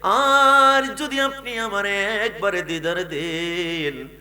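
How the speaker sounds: hammed-up weeping call in a preacher's chant; acted sobbing plea, half-sung; tearful pleading. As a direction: cry out to the Prophet, stretching the last vowels. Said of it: "চোখের পানি ছেড়ে কান্না করে ডাক দেয়া".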